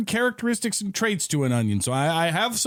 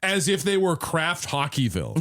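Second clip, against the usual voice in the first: ordinary talk, nothing marked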